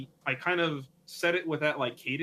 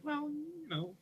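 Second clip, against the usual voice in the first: coy modesty; 12 semitones higher, 8 dB quieter, slower than usual. Retold or imitated. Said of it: "And I'm like".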